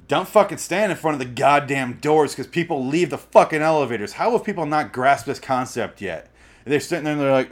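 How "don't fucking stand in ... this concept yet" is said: louder rising rant. Real, not acted. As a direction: blow up at people blocking the doors. Ranting at elevator blockers.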